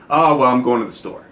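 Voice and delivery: "Oh, well, I'm going to the store" stepping down to a resolved end; falling statement tune that settles on "store"; answer intonation. Shown as a demonstration. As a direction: demonstrate an answer, pitch falling onto "store". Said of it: "answers go down".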